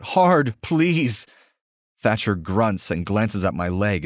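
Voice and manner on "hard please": much higher and louder plea; pleading. Acted. Omega begging her alpha, much higher and louder. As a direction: cry out the plea, desperate.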